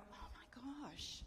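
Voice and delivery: slow, soft, drawn-out oh my gosh; dawning realisation. Retold or imitated. Wife catching her own nastiness, slow dismay. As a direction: let it dawn on you slowly.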